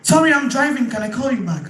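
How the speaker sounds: dodging a caller. Shown as a demonstration. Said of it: "You were not expecting their call".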